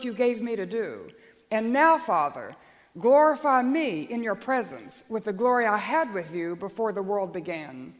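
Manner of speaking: solemn, measured Bible reading to the church; scripture reading. Acted. Reads John chapter seventeen aloud.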